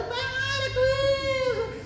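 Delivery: very high, long-held wail; stretched comic shriek; mock screaming.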